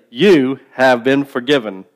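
slow call-and-response line; broad singsong kids theatre. Shown as a demonstration. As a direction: lead the congregation, slow and clear. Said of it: "Just say".

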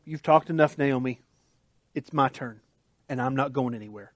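hushed resolve, settling it; quiet resolve. Retold or imitated. Ruth quietly telling Naomi she stays, hushed.

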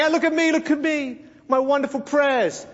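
mock self-admiring sing-out; mock boastful Pharisee. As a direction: imitate someone flaunting their piety. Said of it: "So the Pharisees are praying".

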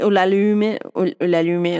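Ulalume with a light French accent, final e sounded. Shown as a demonstration. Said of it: "ay, no, de este acento francés que tengo".

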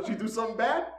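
put-on high, innocent child's question; little kid. Kid asks stepdad about Mom, high innocent child voice. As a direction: imitate a small kid checking, puzzled.

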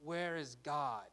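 mildly acted frustration, slow and drawn out; frustrated. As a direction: complain wearily, leaving a long pause before the question. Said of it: "we can be frustrated".

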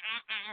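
quick "ah" bursts mimicking bickering; bitchy mock yapping. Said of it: "all bitchy and shit".

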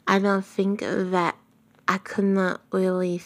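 usual speaking voice

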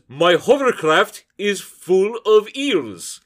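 slow, deliberate broken-English tourist; mock phrasebook foreigner. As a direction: read each word carefully off a bad phrasebook. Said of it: "the Naughty Hungarian Phrase Book".

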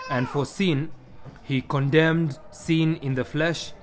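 measured, formal Bible reading with emphatic swells; scripture reading. Acted. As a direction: read scripture to the congregation, phrase by phrase. Reads Scripture aloud to congregation.

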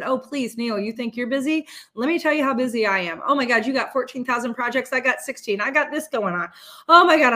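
a competitive, exasperated complaining; mock one-upping complaint. Answering Neil by one-upping his complaints in mock exasperation. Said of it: "I respond back and I said".

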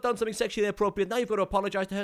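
put-on loud, high Dutch-accented director; eager Dutch director voice, pushing. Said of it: "I think he was Dutch-ish".

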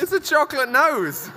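high, astonished echo; disbelief. Real, not acted. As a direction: repeat it in shock. Echoing in disbelief.

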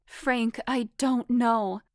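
high, loud, drawn-out plea; pleading. A narrator's reading. Foxy begging Frank to believe her, pleading. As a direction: insist desperately, slow and loud. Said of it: "I pleaded".

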